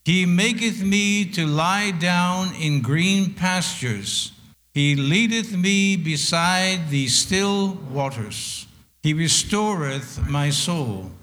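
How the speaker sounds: slow, solemn psalm reading; scripture reading. Acted. Preacher reading Psalm 23 aloud with the congregation, slow and solemn.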